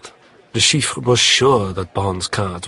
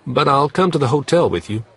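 Leiter voice; 7 semitones higher, 5 dB louder, faster than usual. Acted. Leiter answers Bond.

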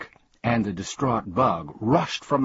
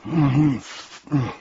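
closed-mouth "mm-hmm", pitched up; mouth-full mumble; 6 semitones higher, 4 dB louder than usual. A narrator's reading. Earl answering while swallowing another mouthful, mumbled. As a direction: mumble agreement through a mouthful. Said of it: "mumbled the Earl".

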